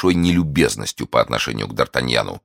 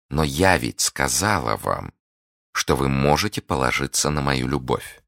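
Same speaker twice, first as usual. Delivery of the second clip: soothing reassurance. Acted. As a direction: reassure the suitor, taking your time. Lady soothes her impatient suitor. (медленно, успокаивающе)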